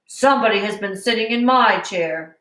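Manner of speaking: a lightly voiced great big bear; hint of a big papa bear. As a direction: barely shift into the big bear. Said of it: "in his great big voice".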